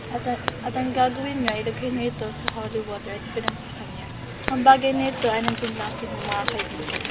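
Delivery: a ghost explaining how to free her; low spirit voice. Acted. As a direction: speak as a calm spirit.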